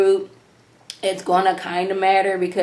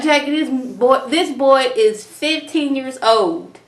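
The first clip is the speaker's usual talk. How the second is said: exasperated retort; 4 semitones higher than usual. Retold or imitated.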